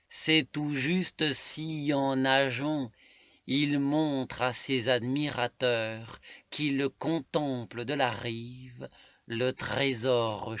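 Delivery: emphatic, deliberate poetic declamation; poem recitation. Acted. Reading a love poem to listeners, emphatic recitation. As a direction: declaim it phrase by phrase, leaning on key words.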